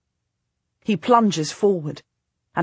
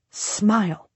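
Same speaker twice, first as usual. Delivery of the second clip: commanding; 4 semitones higher than usual. Acted. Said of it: "I command him".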